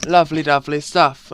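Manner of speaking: lightly mocked posh British accent; a touch of hammed-up British poshness. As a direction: imitate a posh British chap. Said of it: "speak with a really posh accent".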